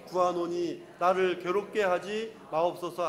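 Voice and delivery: measured, sustained congregational reading; scripture reading. Real, not acted. Preacher reads the verse to the congregation, scripture reading. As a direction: read the verse out in an even, chanted cadence.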